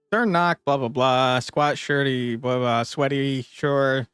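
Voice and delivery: bored skimming. Real, not acted. Skimming story text with blah blah.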